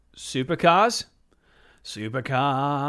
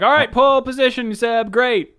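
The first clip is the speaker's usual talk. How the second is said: excited radio call; 10 semitones higher, 8 dB louder than usual. Retold or imitated. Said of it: "They were like".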